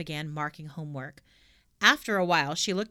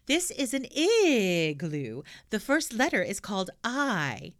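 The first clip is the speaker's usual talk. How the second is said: gaily; 3 semitones higher, 3 dB louder, slower than usual. Acted. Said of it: "she said gaily".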